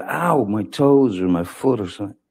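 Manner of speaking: half-hearted imitation of a pained yelp; mild retold scream. Witness retelling her cry about her foot, mild retold scream. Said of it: "she screamed out".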